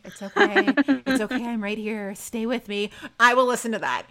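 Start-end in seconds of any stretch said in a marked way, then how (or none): 0.0-2.9 lightly imitated calm, reassuring voice; Jay. Fan quoting him reassuring the wounded, calm. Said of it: "Jay's calm voice".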